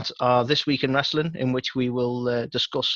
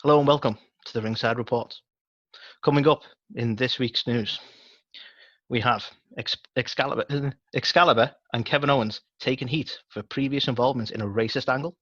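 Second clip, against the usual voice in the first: news anchor. Acted. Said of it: "let's do the news anchor thing".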